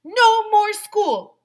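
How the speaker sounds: high, loud, slow chant; shouting. Acted. Kid jumping up in assembly, shouting joyfully. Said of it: "I shouted".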